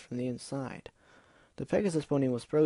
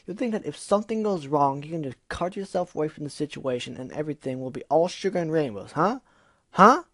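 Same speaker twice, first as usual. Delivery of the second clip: taunting; 3 semitones higher, 4 dB louder than usual. Acted. Gilda taunting.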